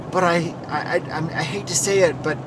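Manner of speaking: mock a senator hesitating before bad news; imitated Democratic senator. Senator reluctantly contradicts a rape victim, mockingly imitated. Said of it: "And then she says".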